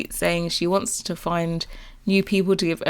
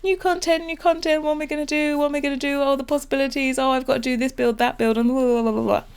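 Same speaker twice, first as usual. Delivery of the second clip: much higher, breathless giddy rush; hyped up; 7 semitones higher, faster than usual. Retold or imitated. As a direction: gush over new content like a kid at Christmas. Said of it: "oh, get hyped".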